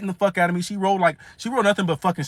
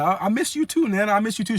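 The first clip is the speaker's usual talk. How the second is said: higher-pitched affectionate reply; retold affection; 4 semitones higher than usual. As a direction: lightly act out a doting grandson. Grandson answers grandma's affectionate welcome.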